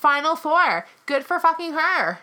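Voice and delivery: loud, high sarcastic outburst; worked-up indignant retort. Real, not acted. Heated argument over contestant.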